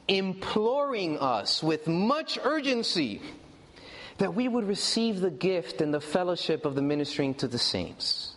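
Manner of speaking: scripture reading. Acted. Reads scripture to congregation.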